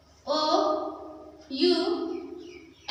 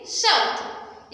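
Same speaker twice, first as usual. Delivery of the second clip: साउथ drawn out very slowly, unvoiced; slow demo; much slower than usual. Shown as a demonstration. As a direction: stretch साउथ for the class. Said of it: "क्या पढ़ेंगे?".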